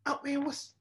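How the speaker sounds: seeing Tristan in the commercial; mock surprise. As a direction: act startled at the ad. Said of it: "And I was like".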